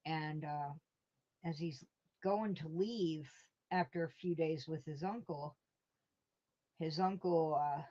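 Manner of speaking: ordinary talk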